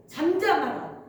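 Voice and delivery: short, firm retold command; acted-out rebuke, drawn out on the last word; stern rebuke. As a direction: voice a brief rebuke, one order at a time. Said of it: "꾸짖으시는 거예요".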